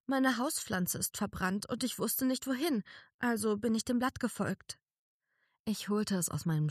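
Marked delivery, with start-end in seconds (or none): 0.1-4.8 higher, small fairy voice; little fairy Daisy. A narrator's reading. Daisy telling narrator how she found her, small fairy voice. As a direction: play her as a tiny plant creature.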